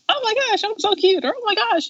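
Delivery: very high, squealing eccentric uncle; mock gushing. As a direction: imitate an uncle cooing over cuteness.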